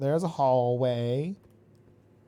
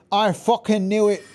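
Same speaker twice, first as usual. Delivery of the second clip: louder, higher repeat of the line; triumphant I-told-you-so yell; vindicated shout; 5 semitones higher, 5 dB louder than usual. Real, not acted. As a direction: crow that you called it.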